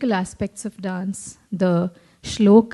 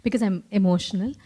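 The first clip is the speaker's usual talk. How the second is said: trembling voice. Real, not acted. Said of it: "my voice is trembling because I'm emotional".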